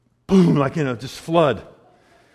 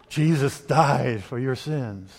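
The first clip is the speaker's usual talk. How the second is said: solemn preacher; 2 semitones lower, much slower than usual. Retold or imitated. Retold preacher begins his message.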